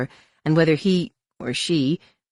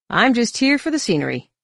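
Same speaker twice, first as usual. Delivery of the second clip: lying; 9 semitones higher, 5 dB louder than usual. A narrator's reading. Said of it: "Han lied".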